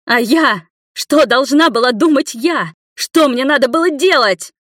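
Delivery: high, loud shouting. A narrator's reading. Nina shouts back at Igor. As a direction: scream her question at him. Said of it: "начала тоже кричать женщина".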